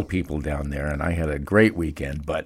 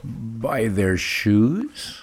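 slow, drawn-out disbelief with a rising end; can't believe it's about shoes; incredulous question; 2 semitones higher, much slower than usual. Real, not acted. Host repeats odd claim in disbelief.

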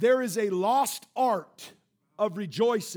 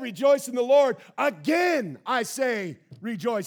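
pulpit-pounding; 4 dB louder than usual. Retold or imitated. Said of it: "pound the pulpit on this".

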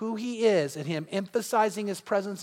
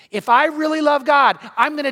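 rising fervor; 5 semitones higher, 6 dB louder than usual. Acted. Preacher building to a peak.

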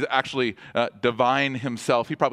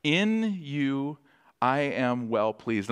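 tender blessing; much slower than usual. Retold or imitated. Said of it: "He speaks over us".

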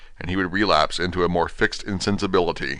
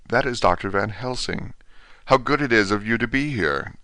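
faint, weak patient; 3 semitones higher, 3 dB quieter than usual. Acted. Renfield speaking weakly to Van Helsing.

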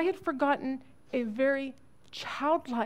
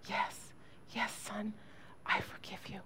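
hushed, soft, tender father voice; father forgiving his crying son over the phone; soft forgiveness; 9 dB quieter than usual. Retold or imitated. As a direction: breathe the forgiveness gently.

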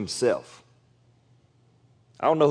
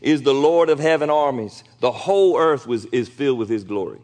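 calling out. Retold or imitated. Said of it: "they were calling out to each other".

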